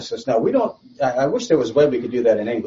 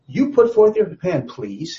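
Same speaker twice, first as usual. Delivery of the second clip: nicely put request; 5 semitones higher, slower than usual. Acted. Satan asking God for a favor, nicely. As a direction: make a polite demand, softening at the end. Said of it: "asked it in a nice kind of way".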